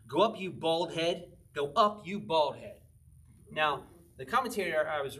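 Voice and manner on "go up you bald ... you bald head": slow, mildly jeering chant; mocking taunt. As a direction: taunt like kids on the road. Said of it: "mocked him".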